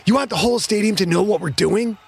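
high-pitched scolding bark; barked rebuke. A narrator's reading. Quarterback scolding his receivers in huddle, barked. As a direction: bark it as an angry challenge. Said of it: "Quentin barked".

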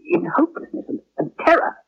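high-pitched, horrified faltering. Acted. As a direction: voice rising high with horror. Recalls the patient's death in terror.

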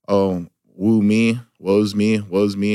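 slow, mock self-pitying whine; mock victim. Mocking people who play the victim, slow mock whine. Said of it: "the victim".

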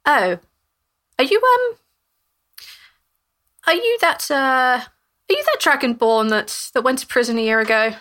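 put-on high, rising shocked old woman; shocked recognition. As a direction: realise who he is with alarm. Cassandra recognises the Dragonborn.

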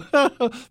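short high laugh; amused chuckle. Real, not acted. Host amused at losing his caller, short high laugh. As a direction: let out a brief real laugh.

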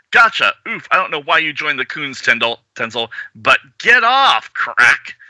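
taunting hero voice. Acted. Voicing comic character attacking.

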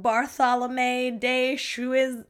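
"Bartholomew de Chuiz-" broken off unfinished; stumbling French pronunciation. Real, not acted. Podcaster failing at the lawyer's name, stumbling pronunciation. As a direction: slowly attempt "Chuiz-" and give up midway. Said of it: "I can't even do it".

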